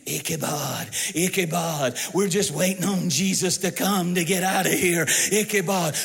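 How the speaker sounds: low, dreary sing-song Ichabod chant; a hint of gloomy plodding chant; mock dull marching lament. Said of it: "dull platoons marching in syncopated beat".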